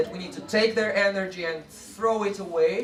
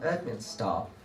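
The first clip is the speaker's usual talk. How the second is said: class response; 8 semitones lower, 6 dB quieter than usual. Shown as a demonstration. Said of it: "and they".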